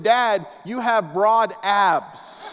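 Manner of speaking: put-on very slow, laughing child voice; sweet little daughter. Little daughter complimenting her dad, slow and laughing. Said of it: "She said".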